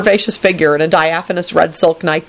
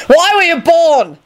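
high, drawn-out exasperated cry; exasperated yell, stretched and high; 11 semitones higher, 3 dB louder, slower than usual. A narrator's reading. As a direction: wail it out in exasperation. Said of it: "Lupin yelled".

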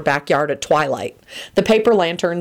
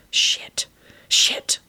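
unvoiced whisper to oneself; two separate whispered curses. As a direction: swear under your breath. Shocked character swears under breath.

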